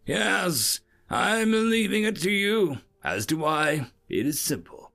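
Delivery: briefing observer. Acted. Observer explaining the hearing to his assistant, emphatic.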